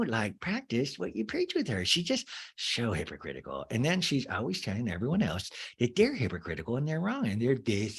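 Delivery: lightly voiced Lisa Rinna gossip; a hint of Lisa Rinna, catty and confiding; Lisa Rinna imitation. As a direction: recapper voicing Meredith as a mild Lisa Rinna. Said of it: "Meredith sound like my Lisa Rinna imitation".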